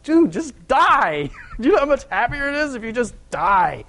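high, laughing plea to just give up; laughing exasperation. Acted. Preacher laughing at people who cling to sin, high exasperated plea. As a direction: coax through a laugh, half exasperated.

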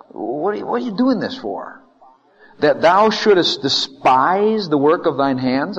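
exasperated challenge, rising in force; acted indignant questioning; accusing. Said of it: "He's accusing God".

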